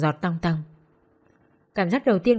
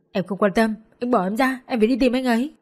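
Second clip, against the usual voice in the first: frantic struggle; 4 semitones higher than usual. Acted. She fights to leave.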